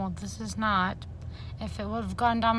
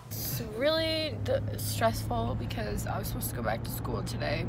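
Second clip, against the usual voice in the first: emotional; 4 dB quieter than usual. Real, not acted. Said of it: "I've never felt so emotional".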